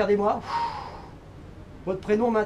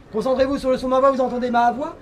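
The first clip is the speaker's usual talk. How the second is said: a stage hypnotist's steady suggestion; hypnotist induction; 3 semitones higher than usual. Acted. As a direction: lull them into the trance.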